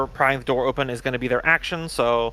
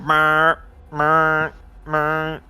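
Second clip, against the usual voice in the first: alarm imitation; much slower than usual. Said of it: "the alarms are going".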